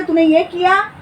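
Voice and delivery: mildly cross mother questioning; lightly acted maternal interrogation; angry mother. Mother confronts her son over his wrongdoing, mildly angry. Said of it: "mummy गुस्से में रहती है".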